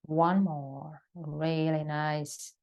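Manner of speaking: calm yoga breath cues with long pauses; sparse, unhurried breathing instructions; guided breathing. Acted. Leads a breathing exercise.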